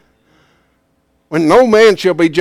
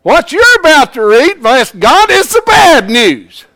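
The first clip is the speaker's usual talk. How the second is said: louder, higher, with passion; 7 semitones higher, 4 dB louder than usual. Shown as a demonstration. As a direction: read it like it stirs you. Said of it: "Either one ought to be done with emotion".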